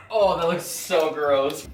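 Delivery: ordinary talk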